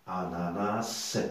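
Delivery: slow "Ananas" ending on an audible s; teacher isolating the final s of "Ananas"; final S sounded. Shown as a demonstration. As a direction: stretch "Ananas" and let the last s hiss alone. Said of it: "comment elle va se prononcer".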